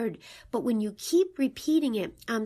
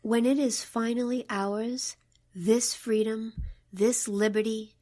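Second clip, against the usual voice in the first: poem reading. Acted. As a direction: read it with reverence, letting it fade. Begins reading the poem again.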